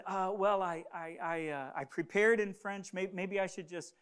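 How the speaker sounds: halting, stammered retold reply; shocked hesitation. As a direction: stumble through it as if caught off guard. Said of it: "I was in shock".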